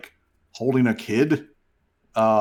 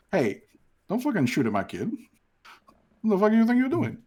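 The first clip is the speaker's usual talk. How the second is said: angry Wraith; 7 semitones higher, faster than usual. Acted. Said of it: "the Wraith is just like".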